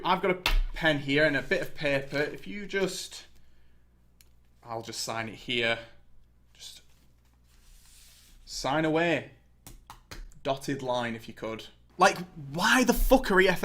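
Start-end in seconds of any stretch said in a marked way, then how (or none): 2.2-11.7 softer, slow, slippery coaxing; sly mock salesman. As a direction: coax him to sign, hushed and sly. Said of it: "mock owner offering pen".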